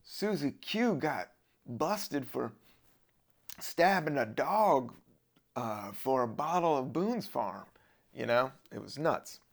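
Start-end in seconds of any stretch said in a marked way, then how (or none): 0.0-7.6 slow, drawn-out Southern drawl; hammed-up Southern accent with long pauses; stereotypical Southern accent. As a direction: put on a slow Southern small-town gossip voice. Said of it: "doing that stereotypical Southern voice".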